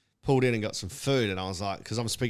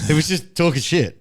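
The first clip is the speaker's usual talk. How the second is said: loud, high laughing talk; 7 semitones higher, 12 dB louder than usual. Real, not acted. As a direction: laugh through the words. Both laughing loudly.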